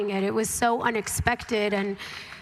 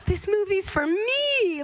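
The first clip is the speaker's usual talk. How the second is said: high-pitched, slow, emotional delight; thrilled realization; 10 semitones higher than usual. Retold or imitated. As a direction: draw it out, overcome with joy. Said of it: "feeling of reading the script and being like".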